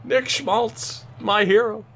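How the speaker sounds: playfully overcome, voice leaping high on emotional; hammed-up emotional tribute to a hero; mock choked up. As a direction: act a little choked up with pride. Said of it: "I'm getting choked up, man".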